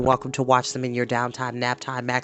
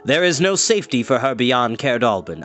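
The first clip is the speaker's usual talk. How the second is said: grim Gwydion. Acted. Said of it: "answered Gwydion".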